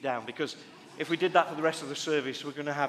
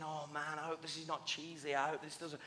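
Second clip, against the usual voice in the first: much softer, like a thought to himself; retold private worry; 10 dB quieter than usual. Pastor thinking to himself as the couple comes forward, hushed worry. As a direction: voice the inner thought under your breath. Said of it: "I was thinking".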